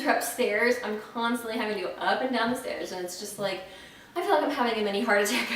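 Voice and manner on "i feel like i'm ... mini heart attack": laughing. Real, not acted. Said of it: "I'm really out of breath".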